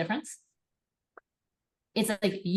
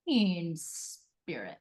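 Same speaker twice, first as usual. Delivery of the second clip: high, put-on incredulous voice; mock puzzled friend; sceptical friend; 4 semitones higher, much slower than usual. A baffled friend questions her, in a high doubtful voice. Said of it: "Or they're gonna be like".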